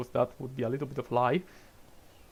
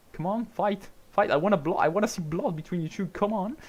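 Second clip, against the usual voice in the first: louder, higher egging-on cheer; 6 semitones higher, 4 dB louder than usual. Real, not acted. Streamer cheering his drivers to battle, excited and louder. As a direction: whip the two drivers into a fight.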